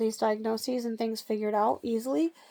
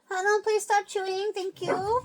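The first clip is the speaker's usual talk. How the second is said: high, firm call to stop chewing; high sharp telling-off; scolding the dog; 10 semitones higher than usual. Real, not acted. Owner scolding her chewing dog, high and firm.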